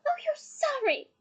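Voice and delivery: high, drawn-out mocking cry; out-of-control scorn. A narrator's reading. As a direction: throw the apology back, slowly. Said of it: "a high-pitched, out-of-control sound".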